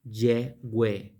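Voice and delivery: "ye, we" as YEH, WEH; pronunciation demo. Shown as a demonstration. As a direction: give "ye, we" as two separate syllables. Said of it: "En la pronunciación".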